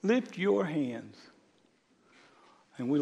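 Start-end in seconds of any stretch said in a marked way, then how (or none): 0.0-1.2 much higher, louder shouted "Stop!"; screamed command. Retold or imitated. Pastor screaming at the chaotic room, sharp shouted command. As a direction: yell it to halt the whole room. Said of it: "I screamed at that place".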